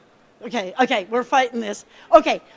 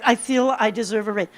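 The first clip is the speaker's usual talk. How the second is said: lowered, unvarying repeat; broken record; 4 semitones lower than usual. Shown as a demonstration. Coach repeats the raise request as demo, evenly insistent. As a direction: repeat it evenly, not budging. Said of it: "The next one is the broken record".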